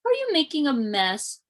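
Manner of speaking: mock stern. A narrator's reading. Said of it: "asked Mama with pointy eyebrows".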